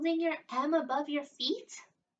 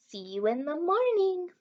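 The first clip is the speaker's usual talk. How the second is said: calling out; 5 semitones higher, 4 dB louder than usual. A narrator's reading. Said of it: "Maxwell called out to Mama".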